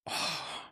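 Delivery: soft, voiceless puff of breath; imitated exasperated sigh. French locals tiring of a learner's attempts, exasperated sigh. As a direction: huff out a retold weary sigh.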